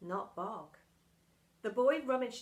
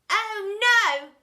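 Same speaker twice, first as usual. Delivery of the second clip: high, loud dismay; dismayed boy; 10 semitones higher, 14 dB louder than usual. A narrator's reading. Boy realizing they're stuck, alarmed. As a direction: cry out in alarm.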